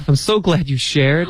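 high-pitched, acted gladness; Rachel's line. Teacher playing a friend thanking someone for sharing, high and glad. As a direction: gush it lightly, pitched well up. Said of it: "最后一句话，Rachel就说".

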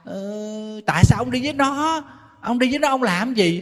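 high, shrill, accusing wife; loud nagging. Shown as a demonstration. Jealous wife interrogating her husband, high and accusing. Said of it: "Chứ ào ào ào ào".

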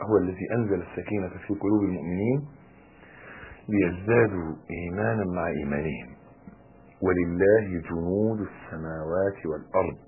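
Quran recitation. Acted. Preacher quoting God's word to the congregation, soft Quran recitation. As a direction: recite the verse softly, drawing out the close.

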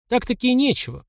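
mock disbelief on "нечего"; an amused, sceptical hmph on "нечего"; ironic scoff. A narrator's reading. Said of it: "иронично хмыкнул Мишка".

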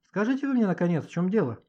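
frustrated yelp easing down at the end; exasperated wail. Acted. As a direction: demand answers, voice jumping up. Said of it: "завопила Маня".

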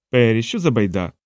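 usual speaking voice

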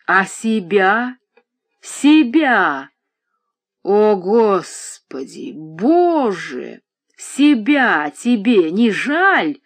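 медленный, громче, с рыдающим надрывом; кричать сквозь рыдания; неистовый крик с рыданиями. A narrator's reading. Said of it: "неистово закричал старик с глухими рыданиями". (отец в отчаянии кричит на дочь: крик с рыданиями)

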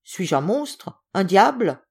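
testy, exclaiming indignation; barely contained anger. Acted. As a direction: protest as if unjustly feared. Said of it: "une colère mal contenue".

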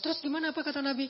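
a worried wife pressing her husband for the Prophet's words, high and fast; eager wife. Retold or imitated. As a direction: rush the question, desperate to know.

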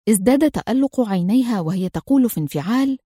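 ordinary delivery, nothing marked

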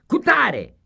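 high, loud name called out; roll call shout. Acted. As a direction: call the name across the room. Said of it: "a strigat catalogul".

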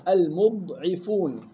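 slow المضعفون said "al-mud'ifuun"; "mu", held dad, then "'i" in المضعفون; damma mim, kasra ayn. Shown as a demonstration. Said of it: "يلاحظ ضم الميم وكسر العين". (المضعفون بضم الميم وكسر العين)

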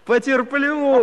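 laughing. Acted. He accepts the one-year wait.

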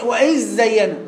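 وإذ زين with a doubled zay swallowing the dhal; fuse وإذ into زين on a long zz; repeated merged error. Retold or imitated. Imitating the student failing after correction, dhal merged. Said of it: "هو إيه؟".

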